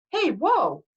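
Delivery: high, loud cry of alarm; yelling driver. A narrator's reading. Bus driver fighting for the wheel, alarmed yell. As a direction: shout to stop what is happening. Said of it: "the driver yelled".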